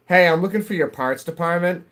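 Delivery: a hint of an upbeat customer calling in; phone caller. Caller asking a dealership for a department, lightly acted. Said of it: "somebody calls in and says".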